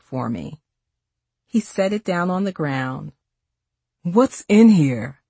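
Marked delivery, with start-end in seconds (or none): 4.0-5.2 surprised. A narrator's reading. Lifting heavy backpack.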